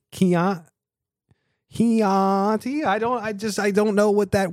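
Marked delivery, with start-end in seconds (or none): 1.7-2.8 Chianti tried again, rising and doubtful; unsure pronunciation. Shown as a demonstration. Host fumbles the wine name, Chianti, questioning. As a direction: Chianti half-swallowed, "hee-AH-tee", as a question. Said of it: "I still don't know how to say it".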